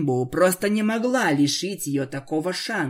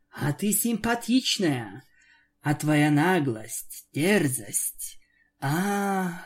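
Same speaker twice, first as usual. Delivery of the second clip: purring vampire; slower than usual. Acted. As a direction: savour her like prey. Vampire savouring her captive.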